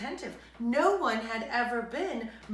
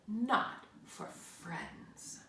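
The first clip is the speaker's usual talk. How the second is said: softer, very slow, hushed; soft slow whisper; 6 dB quieter, much slower than usual. Acted. Bear tells mouse they are friends, soft whisper. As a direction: breathe it tenderly.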